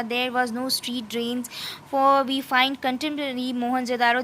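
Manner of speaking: slow, deliberate reading of English text; slow textbook reading. Acted. Teacher reading the textbook passage to students, slow and careful. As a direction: read it out word by word, slowly.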